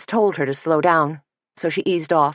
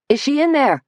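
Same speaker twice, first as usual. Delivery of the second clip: raised voice calling from afar; 10 semitones higher, 3 dB louder than usual. Acted. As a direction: call out high into the room. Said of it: "Suzanne called out".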